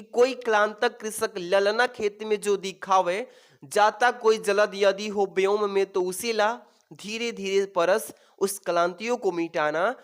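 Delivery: slow verse reading; deliberate classroom poem reading; poem recitation. Acted. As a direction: recite the stanza steadily, phrase by phrase. Reads verse aloud from the passage.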